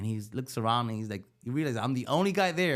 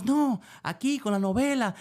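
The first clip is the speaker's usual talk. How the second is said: voicing his wife, pitched up and louder, mildly exasperated; upset wife; 9 semitones higher, 4 dB louder than usual. Wife complaining to husband about the novela, mock indignant. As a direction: mimic her indignant complaint.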